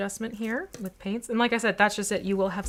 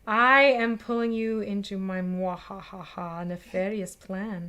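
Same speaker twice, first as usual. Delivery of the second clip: mad scientist; 5 dB louder, slower than usual. Pretend. Villainous scheme joke, mwahahaha.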